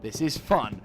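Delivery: mock-angry insistence on having fun; defiant insistence. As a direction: insist on it, punching the words. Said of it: "I'm refusing to lose my temper".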